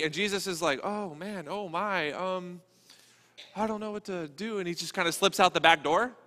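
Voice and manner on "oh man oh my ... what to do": lightly acted helpless hesitation; a touch of comic dismay, slightly quieter; mock flustered. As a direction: play someone softly dithering, at a loss. Plays a flustered, helpless Jesus.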